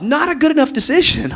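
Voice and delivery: very high, loud, laughing dismissal; comic high-pitched verdict, punched out loud; emphatic rebuttal. Real, not acted. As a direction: shout the excuse down, half amused. Loudly rebutting the mimicked excuse.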